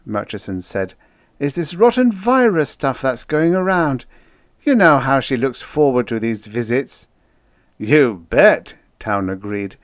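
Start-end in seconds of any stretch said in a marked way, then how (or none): 1.4-7.1 high, loud explaining; earnest officer. A narrator's reading. Officer excusing the girl's absence, earnest. 7.8-8.8 loud, higher, emphatic; hearty agreement. A narrator's reading. Joker backing up officer about the girl, hearty.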